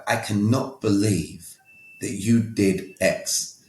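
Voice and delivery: slow, drawn-out reproach; slow accusing. Retold or imitated. To his ex-wife, the accusing approach he once used, slow. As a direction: spell out the blame slowly.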